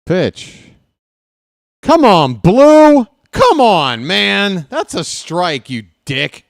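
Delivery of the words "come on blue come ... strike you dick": loud, high, furious shout at the umpire; angry yell at ump. Real, not acted. Fan yelling at the umpire over a strike call, furious. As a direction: bark it at the blind umpire.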